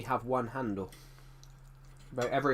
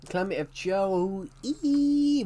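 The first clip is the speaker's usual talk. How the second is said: slow announcer welcome; 6 semitones higher, 4 dB louder, slower than usual. Pretend. Repeats welcome, less stretched.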